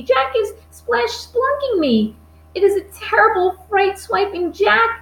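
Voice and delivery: high, wailing giant in panic; terrified bellowing. A narrator's reading. Giant has a nightmare of Jack, high panicked wailing. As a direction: wail it high, stretching the words. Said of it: "bellowed the flesh, flesh lump eater".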